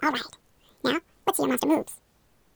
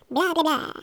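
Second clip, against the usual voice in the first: put-on baby vampire; 3 semitones higher, 4 dB louder, much slower than usual. Shown as a demonstration. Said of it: "how about a baby vampire".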